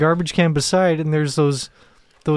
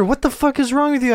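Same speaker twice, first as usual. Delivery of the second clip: shouted from another room, higher; 9 semitones higher than usual. Retold or imitated. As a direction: yell it from the next room. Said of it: "No, I hear".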